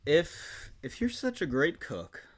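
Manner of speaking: mock-earnest storybook reading with long pauses; dramatic reading. Guest performing Full House book aloud, dramatic reading. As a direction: lift the quotes, draw out the phrases dramatically.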